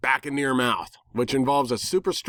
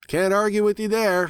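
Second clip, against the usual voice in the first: higher, louder grudging admission; reluctant pony; 11 semitones higher, 4 dB louder than usual. Acted. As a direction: concede it like a tomboy pony. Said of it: "she reluctantly admitted".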